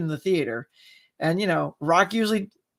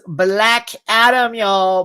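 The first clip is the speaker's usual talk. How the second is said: hyped announcement; 4 dB louder, much slower than usual. Real, not acted. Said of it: "look, there it is".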